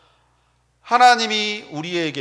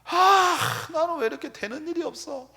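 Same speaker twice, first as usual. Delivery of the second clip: mock whiny complaint; 9 semitones higher, 4 dB quieter than usual. Voices a complaining believer.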